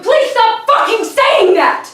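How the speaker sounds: slow, emphatic angry plea; fed-up, drawn-out demand; exasperated outburst. Acted. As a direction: beg him furiously to stop. Angry quarrel over the parents.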